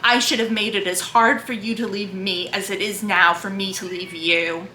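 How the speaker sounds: earnest literary read-aloud, lightly voicing Jane and Rochester; dramatic book reading. A narrator's reading. Booktuber reading Jane Eyre aloud to her viewers, earnest reading voice.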